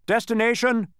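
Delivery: high, loud official demand; shouted. A narrator's reading. Census taker demanding the destination, shouted. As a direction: call it out like an official. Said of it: "shouted the census taker".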